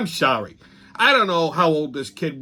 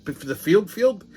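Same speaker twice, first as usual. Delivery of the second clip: second "field" pitched up in disbelief; incredulous clarifying; 3 semitones higher than usual. Retold or imitated. Checking which field is meant.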